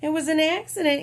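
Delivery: roared. Acted. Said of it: "he roared".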